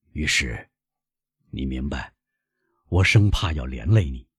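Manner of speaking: lightly voiced old man; apologetic old father. Old father explains the debt.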